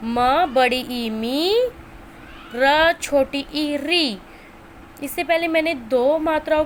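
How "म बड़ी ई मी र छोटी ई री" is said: slow, spelled-out syllable drill; slow teacher's phonics chant. Shown as a demonstration. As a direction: break each syllable apart for kids. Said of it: "बार बार नाम से repeat करें".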